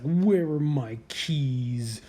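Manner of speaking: slow, grumpy imitation of an angry man; lightly voiced irritated ambassador; mild mock grumble. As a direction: voice the mean-mugging guy losing his keys. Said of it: "He's just mad".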